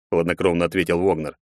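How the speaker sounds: plain reading voice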